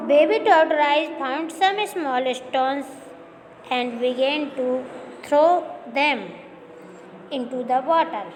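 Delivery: slow, careful story reading for students. Acted. Teacher reading the English chapter aloud to students, slow and clear. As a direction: read the sentence out slowly so the class can follow.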